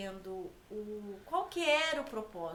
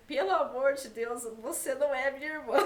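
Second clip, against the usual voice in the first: bronca brincalhona, mais alta; irmão dando bronca de brincadeira, em voz alta; bronca do irmão imaginada; 6 dB louder than usual. Retold or imitated. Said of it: "ele ia falar assim". (imitando o irmão que a repreende em voz alta)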